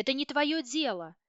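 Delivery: raging mother shouting down the herbalist; frantic yell. A narrator's reading. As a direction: keep screaming like a madwoman. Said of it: "завопила я, как сумасшедшая".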